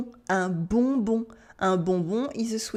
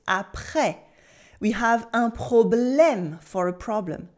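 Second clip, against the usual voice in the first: ordinary delivery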